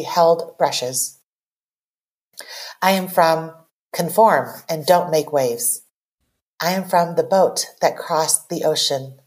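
deliberate recital with pauses between phrases; poem reading. Acted. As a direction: let each image land before the next. Reads own poem aloud.

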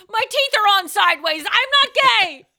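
high, loud frantic yell; pull string toy. Retold or imitated. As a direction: shout it like a squeaky toy. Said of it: "The Tom Cruise goes".

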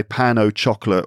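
pain au chocolat with English CH, like chocolate; hard English "choc" in chocolat; anglicised pronunciation. Shown as a demonstration. Trying it for an English person, anglicised pronunciation. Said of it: "difficult for me to change to say".

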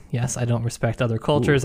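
normal talking voice

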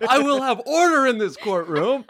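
high, laughing, hammed-up judge; mock stern judge. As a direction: demand order like a pompous judge. Judge bangs for order.

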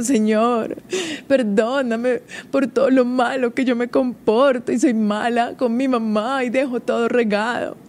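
lightly voiced little girl praying sorry; a hint of a contrite child at prayer; imitating a remorseful child. Daughters praying at bedtime, a hint of contrite child. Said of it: "como súper arrepentidas".

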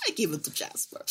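hushed, breathy whisper to herself; whispered aside. Retold or imitated. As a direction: whisper it like a secret thought. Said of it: "but I was like".

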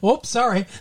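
reflexive Midwestern apology. Shown as a demonstration. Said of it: "I'll just hit the back of a chair and I'll go".

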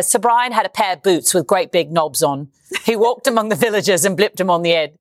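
reciting a poem in a light Cockney accent. Shown as a demonstration. Broadway actress shows her Cockney dialect warm-up poem in a Cockney accent. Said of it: "I'll see if I can do it".

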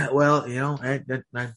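talking through hiccups; words broken by hiccups. Real, not acted. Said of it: "I have got a fucking wicked case of hiccups".

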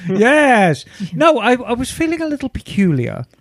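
femme fatale. Acted. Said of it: "she had an American accent".

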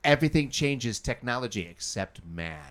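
put-on Irish accent. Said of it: "What is this accent you got going".

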